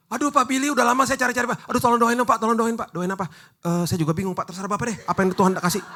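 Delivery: high, loud, whining begging; hammed-up pleading fan at the mall; pleading churchgoer. Church member begging for prayer.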